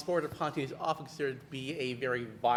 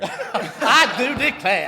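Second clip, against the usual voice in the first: slow, drawn-out Southern gentleman; Southern lawyer voice; 8 semitones higher, 13 dB louder, much slower than usual. Pretend. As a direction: drawl it like a courtly Southern lawyer. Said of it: "you started talking like a Southern lawyer".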